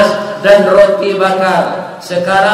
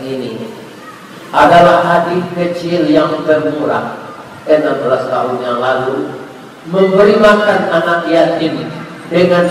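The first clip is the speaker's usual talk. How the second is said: tearful prayer; 4 semitones lower than usual. Acted. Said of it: "menangis dia".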